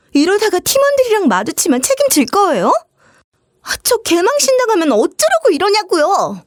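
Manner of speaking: high-pitched whiny sister-in-law; sister-in-law whining about embarrassment, childish. Acted. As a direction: whine like a spoiled child. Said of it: "애처럼 징징대면서".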